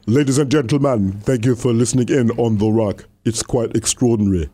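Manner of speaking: put-on lightly done Black British accent; a hint of Idris Elba, Black British accent. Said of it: "switch to Edris Elba, Black British".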